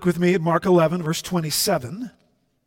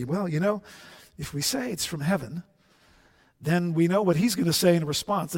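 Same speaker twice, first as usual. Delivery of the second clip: soft, conspiring huddle talk; hushed huddle; 6 dB quieter than usual. Retold or imitated. Priests whispering together in a huddle, hushed. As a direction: keep it hushed, plotting among yourselves. They have a little conference.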